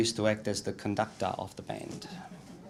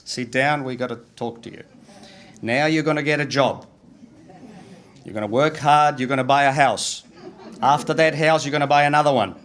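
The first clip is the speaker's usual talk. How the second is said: put-on raised, pushy advice to a young nephew; louder, higher mock lecture from the uncles; bossy uncles lecturing; 5 semitones higher, 7 dB louder than usual. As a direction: hammer every rule home like an old Italian uncle. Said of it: "they said".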